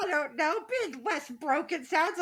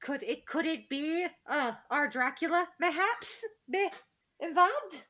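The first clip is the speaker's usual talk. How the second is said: mock dramatic; 4 semitones higher than usual.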